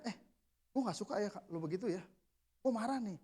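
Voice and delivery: soft, controlled complaint; calmly stated anger. Shown as a demonstration. Telling a subordinate he dislikes it, calmly stated anger. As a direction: say you're angry without raising the voice. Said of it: "Tapi gitu nadanya".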